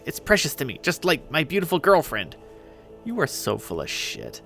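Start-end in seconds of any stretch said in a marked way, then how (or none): 3.1-4.4 low, slow, hushed accusation; stage whisper. Acted. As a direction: squabble under your breath. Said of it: "his loud, shitty whispering".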